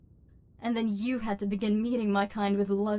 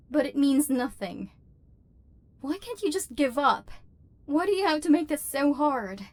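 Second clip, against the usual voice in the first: exasperated plea; 4 semitones higher, 4 dB louder than usual. Acted. Robot resisting human's tenderness.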